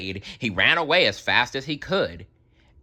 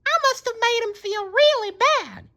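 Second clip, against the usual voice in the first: remorseful Sandy; faster than usual. A narrator's reading.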